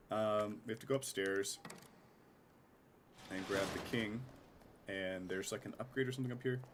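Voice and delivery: nasal, scratchy throat from a cold; nasally voice. Real, not acted. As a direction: talk with a stuffy nose and scratchy throat. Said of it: "sorry about the nasally voice, um, and the scratchy throat".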